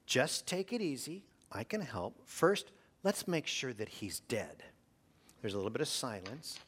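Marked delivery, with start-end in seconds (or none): 0.1-4.7 calm soothing operator. Acted. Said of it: "in a calm, soothing voice".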